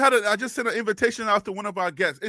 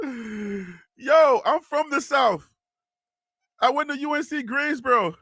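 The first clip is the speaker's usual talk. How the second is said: higher, drawn-out teasing imitation; mocking hometown pride, pitched up; mock boast; 3 semitones higher, slower than usual. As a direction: crow it like a joke brag.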